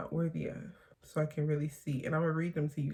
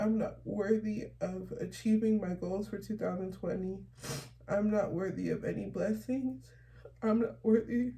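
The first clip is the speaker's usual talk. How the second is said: tearful reading; 3 semitones higher than usual. Real, not acted. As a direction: hold back real tears as each line gets harder. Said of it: "I started crying".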